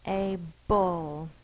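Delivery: "A bull" with the uh sound clear; schwa demo. Shown as a demonstration. Teacher to students, repeating the schwa sound. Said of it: "you hear the uh sound".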